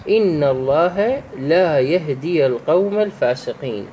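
measured recitation, "ii" of يهدي held; elongated vowel. Shown as a demonstration. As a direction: lengthen the final ya in يهدي. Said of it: "هذا أيضًا يسمى بالمد الأصلي".

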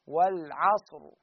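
والعصر said slowly with the final ra made heavy. Shown as a demonstration. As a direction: pronounce والعصر with a full, heavy ra. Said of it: "بالتفخيم". (والعصر بالتفخيم ببطء)

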